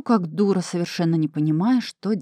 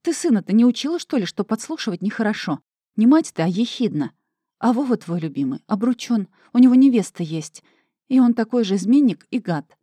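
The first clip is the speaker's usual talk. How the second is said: raised, rising fury, louder and higher; angry retort; 4 semitones higher, 6 dB louder than usual. Acted. Vera snaps at Mashka over her son, angry and loud. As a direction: lash out at the meddling friend.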